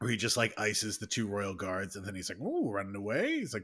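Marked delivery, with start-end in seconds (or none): 2.4-3.4 smug, gloating, taunting tone. Retelling a movie lightsaber duel, quoting the character: smug Yoda voice. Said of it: "you get smug Yoda".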